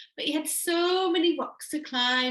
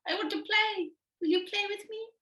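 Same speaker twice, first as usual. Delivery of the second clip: eager caterpillar; 10 semitones higher than usual. Acted. Caterpillar begging to play.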